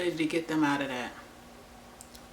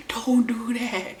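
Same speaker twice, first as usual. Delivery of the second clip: firm warning; 5 semitones higher, slower than usual. Retold or imitated. Repeats warning to friend.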